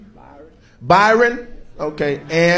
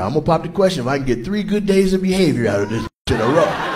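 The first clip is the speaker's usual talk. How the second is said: mock boyfriend vow; 4 semitones lower, 4 dB quieter than usual. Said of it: "We be like".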